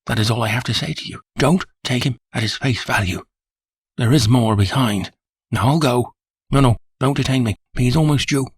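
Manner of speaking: a frightened man pressed for time; nervous manager. Acted. Frightened manager hurries his warning to Holmes, high and urgent.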